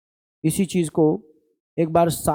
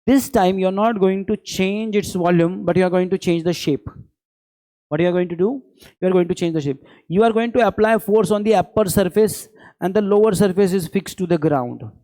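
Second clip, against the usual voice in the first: slow teaching; 2 semitones higher, much slower than usual. Real, not acted. Teacher slows English explanation.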